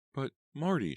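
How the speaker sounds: high-pitched protest. A narrator's reading. Manager on the phone at home, protesting. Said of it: "she protested".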